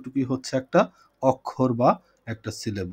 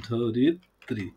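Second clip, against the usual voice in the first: syllable breakdown; 4 semitones lower, 4 dB quieter, much slower than usual. Shown as a demonstration. Teacher starting to split a word for the class, "ধরিত্রী" in separated syllables. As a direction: lower "ধরিত্রী", loosely split as ধ-রিত-ত্রী. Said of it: "তারপরে ভাঙি".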